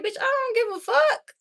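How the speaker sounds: high, careless brush-off; dismissive quote. Retold or imitated. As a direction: toss it off like you don't care at all. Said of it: "you like".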